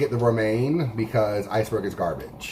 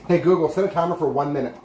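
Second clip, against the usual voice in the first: quick, clear command to a smart speaker; talking to voice assistant; 4 semitones higher, faster than usual. Real, not acted. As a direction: rattle off the timer request to the device.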